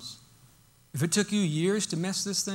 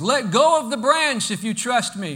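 louder, raised, insistent command; the Lord insisting; 4 semitones higher, 7 dB louder than usual. Acted. The Lord repeats the order to the hanging man, louder and insistent. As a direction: project it firmly up and out. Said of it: "again, the Lord says".

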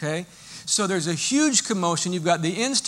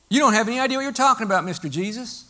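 fast, higher, sneering dismissal; scornful retort; 4 semitones higher, 4 dB louder, faster than usual. Pretend. Mourners sneer at Jesus, fast and higher. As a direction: rattle it off with contempt.

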